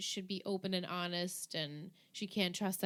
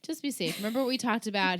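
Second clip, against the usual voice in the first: mock dad; 2 semitones higher, 5 dB louder than usual. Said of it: "Rufus is like".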